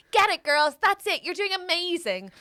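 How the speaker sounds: mock class cheerleader, high and loud; London instructor. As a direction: whoop the class on, imitating a trainer. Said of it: "in London, they're like".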